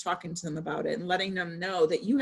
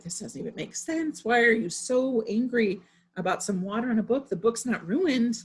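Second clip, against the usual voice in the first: mild retold exasperation; 5 semitones higher than usual. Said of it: "I felt myself getting frustrated".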